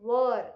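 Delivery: "Were" with a central "er" vowel, loud; correct pronunciation. Shown as a demonstration. Teacher answering how it is pronounced, correct pronunciation. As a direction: say "Were" firmly, rhyming with "her". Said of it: "इसका pronunciation क्या है?".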